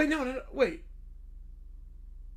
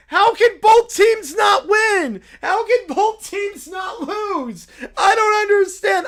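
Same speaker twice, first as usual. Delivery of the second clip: crying shout; 3 semitones higher, 3 dB louder than usual. Acted. Fan wailing over a tied game, loud crying shout. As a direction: wail it out like a heartbroken fan.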